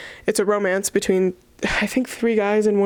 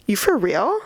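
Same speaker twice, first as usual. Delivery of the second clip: put-on Valley Girl accent. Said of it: "she has a Valley Girl accent".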